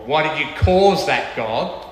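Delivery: a hint of a grumbling child accusing God; sulky accusation aimed upward; mock angry complaint.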